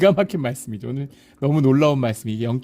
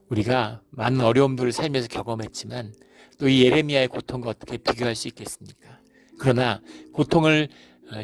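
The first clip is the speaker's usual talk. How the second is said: prayer. Acted. Leads closing prayer.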